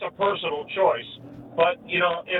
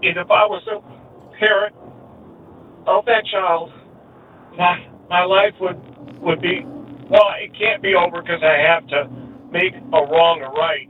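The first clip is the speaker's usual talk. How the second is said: emotional, upset; 5 dB louder than usual. Real, not acted. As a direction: push through real distress. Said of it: "you can tell I'm emotional".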